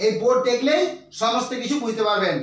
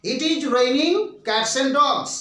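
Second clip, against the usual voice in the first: each word spelled out slowly for writing; slow teacher dictation; much slower than usual. Shown as a demonstration. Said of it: "দু number আমি লিখেছি".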